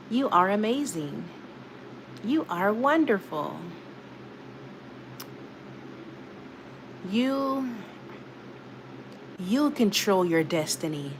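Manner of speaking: slow, soft-spoken affirmations in a natural voice; own soothing voice. Shown as a demonstration. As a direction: soothe the listener with gentle, spaced-out affirmations. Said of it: "I'll use my voice".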